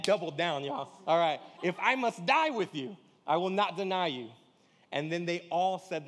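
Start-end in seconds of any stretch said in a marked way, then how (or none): 1.6-4.3 loud, insistent doubling down; emphatic vow. Retold or imitated. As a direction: insist hard, no backing down. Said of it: "But he said emphatically".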